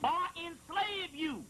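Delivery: the god's way of talking. Acted. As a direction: speak as the divine voice, deliberate. That's the way he talks.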